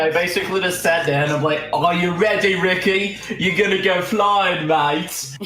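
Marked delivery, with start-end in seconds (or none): 1.7-5.4 slightly raised, put-on taunting voice; teasing send-off. Friend about to launch Ricky, higher teasing put-on voice. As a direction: play up a mock warning to a friend.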